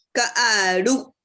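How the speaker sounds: "Kaaru" with the stress on the final u; final-syllable stress. Shown as a demonstration. Teacher reading out a wrongly accented word, final-syllable stress. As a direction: lean on the last syllable of "Kaaru". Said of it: "Sí se pronuncia, pero no se escribe".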